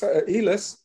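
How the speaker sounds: "Elis" said the proper way, without the "Che" start, as ee-lis; proper pronunciation. Shown as a demonstration. Elder teaching a place name to listeners, saying "Elis" carefully. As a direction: give "Elis" its proper native form, calm and clear. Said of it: "or more properly pronounced".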